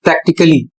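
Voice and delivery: "प्रैक्टिकली" joined as prak-tik-lee; correct pronunciation. Shown as a demonstration. Teacher telling how to read it, correct pronunciation. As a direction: say "प्रैक्टिकली" without stressing the A. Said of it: "सही पढ़ना है".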